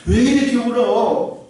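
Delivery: mock husband. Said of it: "뭐, 이렇게 좋은 말을 했겠습니까?".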